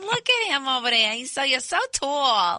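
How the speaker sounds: mock a woman swooning over him; gushing admirer. Wife mocking the women who fawned over her husband, gushing. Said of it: "Women were saying".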